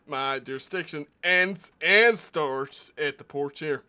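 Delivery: a proud small-town deputy guarding his porch; stern deputy marshal. Acted. Plays deputy marshal character.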